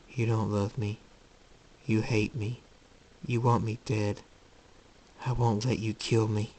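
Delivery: understated cold accusation; troubled son, grim. Acted. Jacob turning on his mother, quietly grim. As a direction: state each charge quietly, with pauses.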